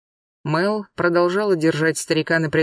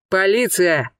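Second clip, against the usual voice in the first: thundering; 3 semitones higher, slower than usual. Acted. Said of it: "его голос прогремел, как гром".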